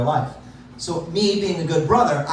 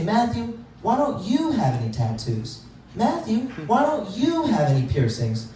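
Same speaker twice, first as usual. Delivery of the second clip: rising to a much higher mock whine by racist; nagging liberal friends; 6 semitones higher than usual. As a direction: imitate pushy friends, climbing higher each question. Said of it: "They say".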